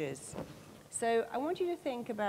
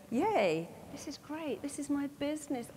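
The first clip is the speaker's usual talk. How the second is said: cheerful yay; 6 semitones higher than usual. Retold or imitated. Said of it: "Or you can go".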